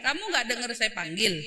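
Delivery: relaxed question, voice kept low and easy; calm tone. Shown as a demonstration. Preacher showing the calm tone to the mothers. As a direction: show how to ask without anger. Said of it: "Oh, nadanya nggak tinggi".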